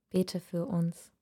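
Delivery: the mother whispers farewell before going inside. Acted. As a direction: breathe the plea slowly. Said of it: "flüstert sie".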